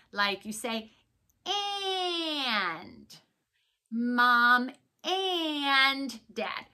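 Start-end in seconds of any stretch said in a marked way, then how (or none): 1.4-6.7 a playful whining "And, Mom, and Dad"; mock whine. Shown as a demonstration. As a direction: whine like a child asking a parent. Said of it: "This one you kind of whine".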